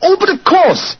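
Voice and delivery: jumps high on a flash of memory; as if it just clicked into place; sudden realization. Acted. Holmes suddenly remembers Irene Adler.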